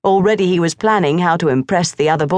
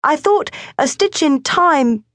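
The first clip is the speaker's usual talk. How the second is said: put-on high, pressing boyish voice; urging boy; 10 semitones higher than usual. A narrator's reading. Morris urges his father, high and insistent. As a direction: push the point like an eager boy.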